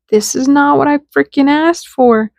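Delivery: exasperated, hammed-up objection; mock exasperation. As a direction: complain in acted frustration. Acted exasperated reply to higher self.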